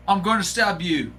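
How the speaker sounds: put-on jokey Canadian accent, lightly done; playful fake Canadian stab threat; mock Canadian accent. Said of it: "Did I nail the accent".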